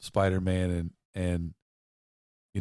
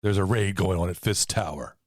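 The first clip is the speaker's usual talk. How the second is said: radio voice; 4 dB louder than usual. Pretend. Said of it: "in, like, a radio voice".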